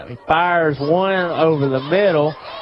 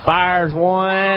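excited shout; 4 semitones higher than usual. Real, not acted. Quarterback throws under pressure.

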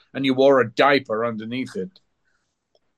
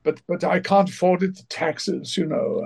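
a higher, lightly voiced old English actor; imitating Gielgud; 4 semitones higher than usual. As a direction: lightly mimic the elderly actor's protest. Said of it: "He goes".

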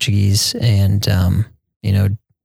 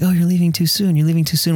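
much higher, sing-song hospitable protest; polite host protest; 7 semitones higher than usual. Retold or imitated. Brazilian host seeing guests out, high sing-song. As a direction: play the gracious host who won't let you go. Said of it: "they'd be like".

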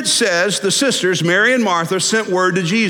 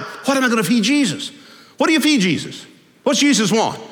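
a touch of frantic worry, pitched higher; lightly voiced stressed-out Martha; 4 semitones higher than usual. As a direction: fret like a flustered hostess.

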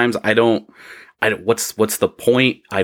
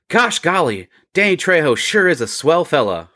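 wide-eyed fanboy gush; gee-whiz starstruck delight; gushing exclamation; 6 semitones higher than usual. A narrator's reading. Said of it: "Fro exclaimed".

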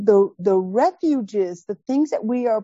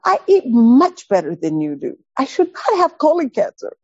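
indignant; 4 semitones higher than usual. Retold or imitated. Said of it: "She is hot".

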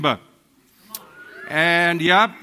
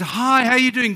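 bright, high, louder mock-friendly hello; fake cheerful greeting; 7 semitones higher, 5 dB louder than usual. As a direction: sing out a falsely happy greeting. Forced church greeting after fight.

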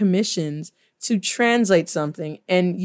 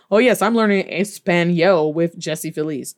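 mock student; 3 semitones lower than usual. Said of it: "please don't ever say that".

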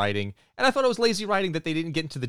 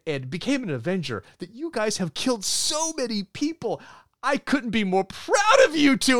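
proud oblivious dad; 4 semitones higher than usual. Retold or imitated. Father praising his assassin daughters, gushing and oblivious. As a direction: gush like a clueless proud father. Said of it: "at this point, he's like".

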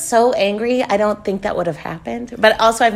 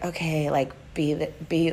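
retold self-calming; 4 semitones lower, 10 dB quieter than usual.

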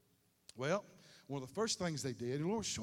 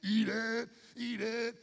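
mock insistent mother; 6 semitones higher, slower than usual. Parent urging child to eat.

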